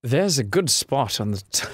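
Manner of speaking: put-on shaky try at a British accent; attempted British accent. Voicing the British guy in a game, British accent. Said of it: "not British".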